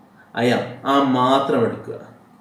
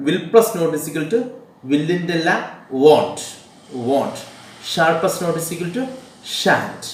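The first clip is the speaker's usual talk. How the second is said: each word spaced out slowly for writing down; slow dictation; much slower than usual. Shown as a demonstration. Teacher dictating contraction rules to students, very slow and deliberate. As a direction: read it out slowly so students can copy.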